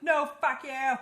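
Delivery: high, loud furious retort; a retold spiteful yell; angry shout. Pestilence refusing to let her go.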